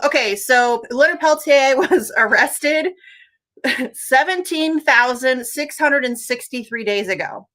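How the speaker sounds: slow, laughing through the words; disbelieving laughter, drawn out; laughing while talking. Real, not acted. Laughs at absurd prison numbers.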